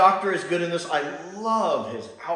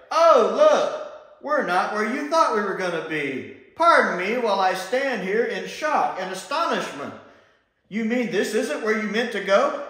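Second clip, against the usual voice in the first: mock astonishment, sarcasm dripping, a higher voice; sarcastic Sarah Jane; 5 semitones higher, 3 dB louder than usual. Fan mimics Sarah Jane mocking the Doctor's navigation, sarcastic. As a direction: play up the fake shock with a wide eye-roll. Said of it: "She's like".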